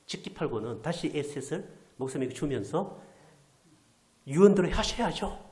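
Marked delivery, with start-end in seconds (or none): 4.3-5.5 loud, slow and insistent; pushy demand. Retold or imitated. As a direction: press it on him as a duty. Relatives push children onto pastor. (크고 느리게 밀어붙이듯)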